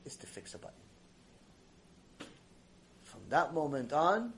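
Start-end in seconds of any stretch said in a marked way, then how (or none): 0.1-0.8 broken whisper. Retold or imitated. Whispered end of confession.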